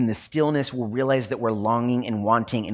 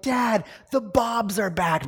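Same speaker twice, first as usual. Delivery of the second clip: put-on kids' announcement, higher and drawn out; excited kids; 10 semitones higher, slower than usual. Pastor imitating his kids announcing the bugs returned, high and excited. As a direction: play the kids bursting in with news, slow and high. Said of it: "the kids will be like".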